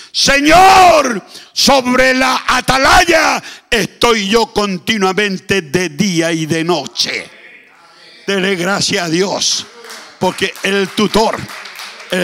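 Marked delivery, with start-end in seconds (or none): 0.1-7.3 clama Señor muy alto y fuerte, lento; grito de león. Acted. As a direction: ruge como un león desde la torre. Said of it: "gritó como león". (grito de león, agudo y potente)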